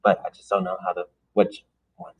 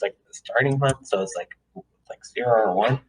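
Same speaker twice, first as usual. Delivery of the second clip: talking with gum in mouth; chewing gum while talking; mouth full; 3 semitones higher than usual. Real, not acted. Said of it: "I have gum in my mouth".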